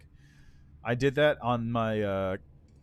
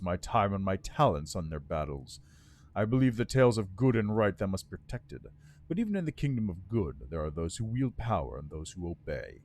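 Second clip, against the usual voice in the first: lightly voiced bitter undead lord; resentful lich, words held tight; 4 semitones lower than usual. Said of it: "Grinding his teeth, the Lich answers".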